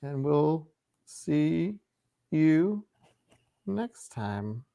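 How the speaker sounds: slow, drawn-out villain sign-off; menacing villain goodbye. Real, not acted. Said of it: "I said that like a villain".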